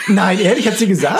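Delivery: loud, high disbelief; shocked. Real, not acted. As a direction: gasp out the disbelief. Shocked reaction.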